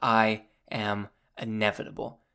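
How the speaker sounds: low, soft, menacing quote; villain line. Retold or imitated. Fan quoting Thanos with quiet menace. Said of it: "he says".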